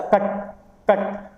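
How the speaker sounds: कट with a brief uh, never a full aa; just touch the vowel in कट; light short "a". Shown as a demonstration. Teacher clarifies for learners, कट with light short uh. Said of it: "पूरा आ भी नहीं, हल्का सा".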